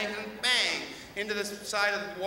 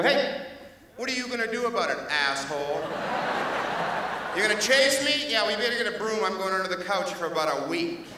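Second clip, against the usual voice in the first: cocky cat taunt. Acted.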